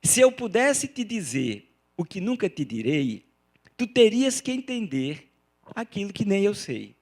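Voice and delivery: recited verse. Shown as a demonstration. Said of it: "essa outra também".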